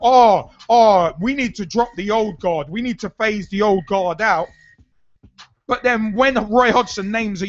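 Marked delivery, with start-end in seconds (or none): 0.0-4.5 mock moaning. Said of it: "were moaning".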